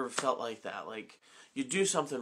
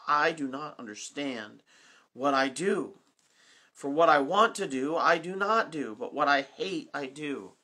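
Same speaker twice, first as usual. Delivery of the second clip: louder, impassioned reading of Paul; emphatic quote; 4 dB louder than usual. Shown as a demonstration. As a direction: press every line of the quote hard. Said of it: "he says it so wonderfully".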